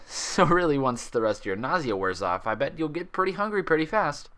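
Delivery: easygoing doctor, lightly voiced. Doctor offers food.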